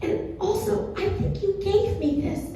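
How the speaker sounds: high, soft, feeble-voiced excuse; weak little voice, well below full volume; saving the voice. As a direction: imitate a mom too sore to talk. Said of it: "trying to save my voice".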